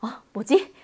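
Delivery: usual speaking voice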